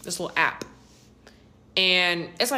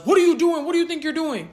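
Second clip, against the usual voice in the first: brother's outraged yell, louder and higher; retold yell; 8 semitones higher, 6 dB louder than usual. Brother catches his sister with his phone, imitated high, loud yell. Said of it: "and yells".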